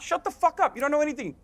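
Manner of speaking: losing it. Real, not acted. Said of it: "I lost it".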